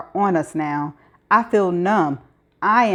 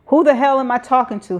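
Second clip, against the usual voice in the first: fast, louder, hostile demand; harsh and hostile; 5 semitones higher, 3 dB louder, faster than usual. Acted. Warden snapping at the caller on the phone, hostile. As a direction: bark it at the caller, higher and hard. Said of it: "is harsh and hostile".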